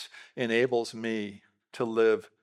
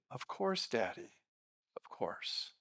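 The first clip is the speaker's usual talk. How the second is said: put-on kids forgiving; 2 semitones lower, 11 dB quieter, slower than usual. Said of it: "No, they say".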